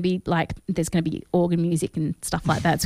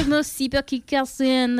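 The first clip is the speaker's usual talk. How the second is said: a bad French accent on "Merci beaucoup, Carson", pitched up; mock French; 4 semitones higher than usual. Host thanking Carson in a bad mock French accent. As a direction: fake the French with a grin. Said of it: "don't really know how to do a French accent".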